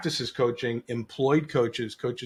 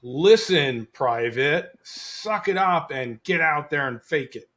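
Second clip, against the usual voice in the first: drill sergeant; 3 semitones higher, 5 dB louder than usual. Retold or imitated. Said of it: "it was like a Marine drill sergeant".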